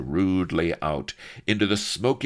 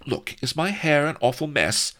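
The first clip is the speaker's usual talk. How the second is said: high, louder ladylike fretting; distressed noblewoman's cry; 12 semitones higher, 5 dB louder than usual. A narrator's reading. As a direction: fret aloud like a vain lady. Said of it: "she cried to Blood".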